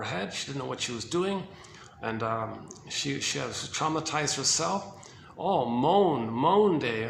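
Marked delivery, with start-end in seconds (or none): 5.4-7.1 mock moan. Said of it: "Now we go into moan day".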